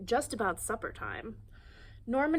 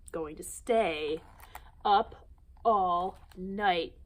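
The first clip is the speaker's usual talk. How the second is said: loud, very slow, drawn-out cheer; 7 dB louder, much slower than usual. Acted. Siblings cheering to their parents, loud and drawn out. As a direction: stretch it out in triumph. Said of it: "cheered Jim and his siblings".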